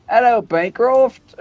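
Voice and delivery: mock Russian greeting, high and slow; playful Russian-accented hello. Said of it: "You flip from Russian to English".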